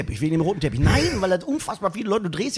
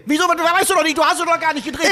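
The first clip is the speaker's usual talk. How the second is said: high, raised-voice contradiction; heated bickering; 10 semitones higher, 4 dB louder than usual. Acted. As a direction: argue back without waiting. Acted escalating quarrel between comedians.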